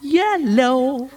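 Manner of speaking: high, drawn-out scared squeak of a word; mock frightened. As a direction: stretch it out in pretend fright. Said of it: "डर के मारे निकला".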